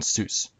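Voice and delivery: ZEUS here is SOOS, the accented syllable; stressed syllable shown. Shown as a demonstration. Presenter repeating where the accent falls, stressed syllable shown. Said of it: "the accent is on".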